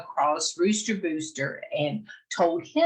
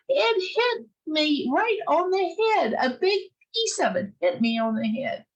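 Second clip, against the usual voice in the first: insistent hen; 10 semitones higher than usual. Acted. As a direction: swear it really hit you. Hen insists she was hit.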